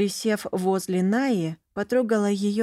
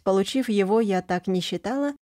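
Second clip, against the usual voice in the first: ordinary delivery, nothing marked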